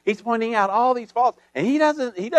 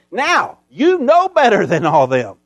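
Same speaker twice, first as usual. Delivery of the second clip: slowed-down prophet's accusation, louder; prophet's rebuke; 5 dB louder than usual. Retold or imitated. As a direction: lean on you and drag it out. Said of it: "so he could say".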